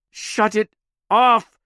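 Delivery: high, loud, slowed desperate plea; desperate cry. Acted. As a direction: beg it to stop, voice straining. Nemi in panic.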